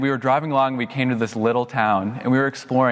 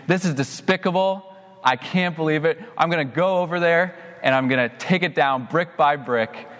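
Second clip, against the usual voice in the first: mock indignant rant, pitched higher; hammed-up spewing about a building; retold angry rant; 4 semitones higher than usual. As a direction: reenact venting to friends, half-playful outrage. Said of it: "I just started spewing to all my friends".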